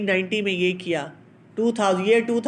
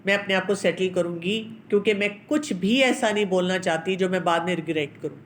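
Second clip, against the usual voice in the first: self-controlled calm; 2 semitones lower than usual. Retold or imitated. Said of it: "بہت control کر کے کہنا پڑتا ہے".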